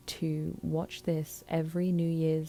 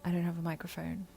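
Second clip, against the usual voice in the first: muffled headphone mic sound; speaking into headphones; headphones used as mic. Real, not acted. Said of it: "I am talking into my headphones because".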